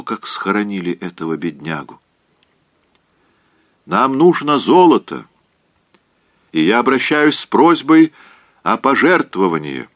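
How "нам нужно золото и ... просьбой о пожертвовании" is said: pompous orator. A narrator's reading. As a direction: plead grandly for gold like the doctor. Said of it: "продолжал доктор". (напыщенный оратор, выше и громче)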